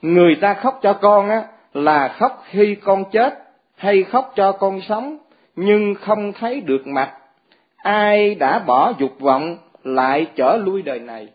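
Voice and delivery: slow, drawn-out recital of the verse again; slow verse recitation. Acted. Preacher repeats the mother's verse to the monks, slow chant. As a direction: chant the mother's words slowly and solemnly. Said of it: "ở đây mẹ Ngài nói nè".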